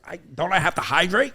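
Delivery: little daughter. Retold or imitated. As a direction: play an innocent little girl asking. Voicing his young daughter.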